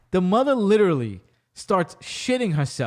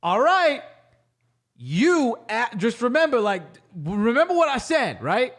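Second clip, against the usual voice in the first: raised, knowing warning; warning husband; 4 semitones higher than usual. Retold or imitated. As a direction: remind her with a lifted, knowing tone. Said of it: "he's like".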